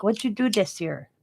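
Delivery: mildly mimicked Chinese-accented English; touch of put-on Chinese accent; imitated Chinese accent. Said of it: "And that's how he talked".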